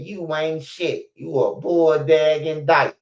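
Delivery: slow, drawn-out insult in mama's voice; imitating mama insulting. Mama cursing out Laura Lightfoot at the parade, slow mock insult. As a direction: spit it out slow like an angry mother. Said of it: "my mama said".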